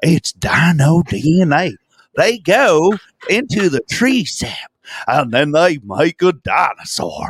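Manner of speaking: put-on Southern drawl, pitched high. Mocking the Jurassic Park scene explaining dinosaur DNA; imitating a Southern drawl. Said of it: "he has that Southern guy like".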